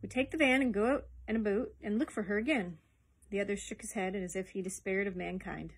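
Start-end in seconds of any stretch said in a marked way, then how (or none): 0.0-2.8 lightly voiced keen junior with a bright idea; young assistant, pleased with his idea; eager young Donald. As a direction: offer the plan eagerly, a little louder.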